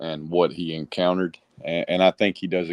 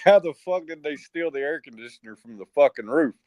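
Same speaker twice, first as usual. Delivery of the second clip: incredulous; 6 semitones higher than usual. Retold or imitated. Retelling disbelief at stolen unit.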